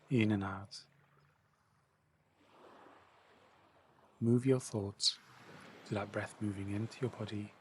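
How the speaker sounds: calmly pace the listener's breath; measured meditation guide, leaving room to breathe; guided breathing meditation. Acted. Leads breathing exercise.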